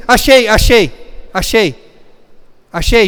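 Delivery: loud, quick, eager calling out; mock eager teen. Teen fakes finding the verse so others stop, eager. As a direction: fake having found it so the others stop.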